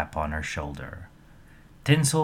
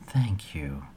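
whispered; 3 semitones lower, 5 dB quieter than usual. A narrator's reading. Selena whispers thanks.

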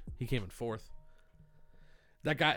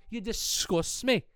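slow, higher, drawn-out You disgust me; 6 semitones higher, slower than usual. Acted. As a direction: stretch it out with scorn.

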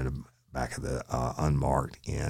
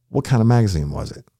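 higher, louder demand; pressing shout; 8 semitones higher, 9 dB louder, faster than usual. Retold or imitated. Officer grilling the suspect, pressing shout. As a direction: push for the detail.

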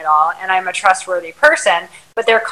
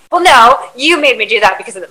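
sharp, raised, rushed pushback; defensive retort; 4 semitones higher, 4 dB louder than usual. Retold or imitated. Partner deflecting blame onto me, indignant. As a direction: snap back, blaming the other.

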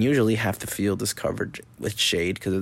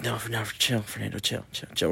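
calming self down; 6 dB quieter than usual. Retold or imitated. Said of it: "And I was like".

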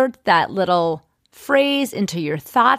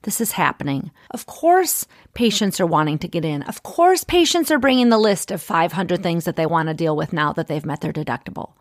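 accepting mantra. Shown as a demonstration. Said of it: "shift your focus and say".

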